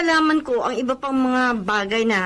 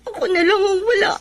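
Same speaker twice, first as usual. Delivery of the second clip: crying; 4 semitones higher than usual. Acted. Jobless friend breaks down crying.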